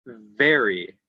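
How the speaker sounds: "very" with the v held and buzzed; emphasised initial V. Shown as a demonstration. Teacher giving a V example, drawn-out initial v. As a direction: lean on the v that opens "very". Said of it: "Using V at the beginning of a word".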